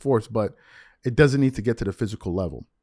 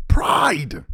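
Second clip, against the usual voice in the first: whispered word. Real, not acted. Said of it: "whispered single word".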